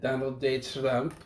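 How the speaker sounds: measured, wobbly mock-German accent; attempted German accent. Co-host saying he can't wait for the debate, attempted German accent. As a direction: try a German accent that slips toward Count Dracula. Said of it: "German accent".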